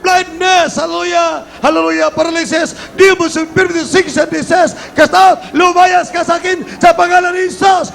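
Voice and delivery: high, forceful commands to cast out sickness; deliverance preaching. Real, not acted. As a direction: fire off each item like an exorcist.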